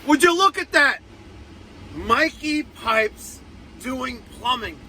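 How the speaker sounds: speaking through a numb mouth; slurred from dental numbing. Real, not acted. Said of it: "I'm talking funny 'cause I went to the dentist".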